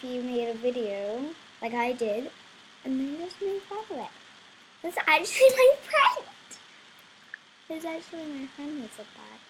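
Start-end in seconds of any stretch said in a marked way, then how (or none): 4.8-6.3 high, loud laugh through the words; cracking up mid-line; real laughter breaking in. Real, not acted. Laughing at the friend's comment.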